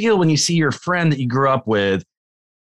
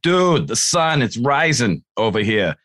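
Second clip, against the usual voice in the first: put-on Massachusetts accent; 3 semitones higher, slower than usual. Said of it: "his thick Massachusetts accent".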